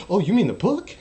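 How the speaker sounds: loud, high, laughing through it; mock woman laughing as she catches on; laughing realization. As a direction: get the joke and crack up. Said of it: "And they're like".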